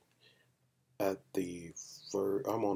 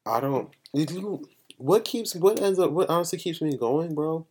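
higher, louder, heartfelt push; impassioned; 9 semitones higher, 7 dB louder than usual. Real, not acted. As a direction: lift it with emotion. Emotional, building intensity.

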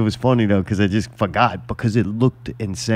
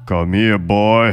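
mock fatherly call; 2 semitones lower, 3 dB louder, slower than usual. Mocking the tame remake Mufasa.

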